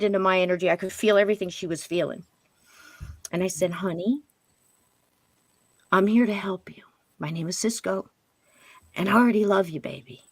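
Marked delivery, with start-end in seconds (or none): 3.7-10.2 tender soothing. Retold or imitated. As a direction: soothe her almost in a whisper. Soothing a frightened child spirit.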